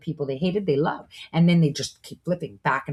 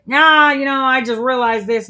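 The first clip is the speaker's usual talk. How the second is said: much higher and louder, airy and dismissive; mock breezy excuse; 8 semitones higher, 8 dB louder than usual. Mocking a turncoat brushing off followers, breezy and airy. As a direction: toss off the flip as if it's nothing.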